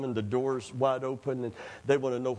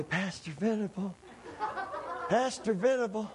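higher urgent calling of a name; 8 semitones higher than usual. Retold or imitated. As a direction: call for the pastor in alarm. Someone calling the pastor urgently.

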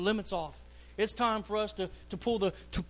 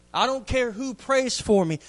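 "prays" hit harder, louder the second time; emphatic repeat; 3 semitones higher, 4 dB louder than usual. Acted. Preacher repeating the point to the congregation, louder. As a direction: drive the line home with more force.

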